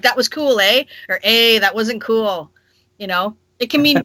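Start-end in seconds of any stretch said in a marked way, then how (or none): 0.0-0.8 Canadian eh tagged on with a questioning rise. Shown as a demonstration. Canadian host demonstrating eh as a question. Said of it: "it has a lot of different uses". 1.2-2.5 slow, dismissive Eh up front; dismissive Canadian eh. Shown as a demonstration. Canadian host demonstrating eh as a dismissive opener. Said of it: "it has a lot of different uses".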